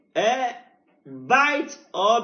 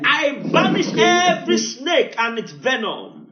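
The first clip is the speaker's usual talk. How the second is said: call and response; 3 semitones higher, 3 dB louder than usual. Real, not acted. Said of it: "Say with me".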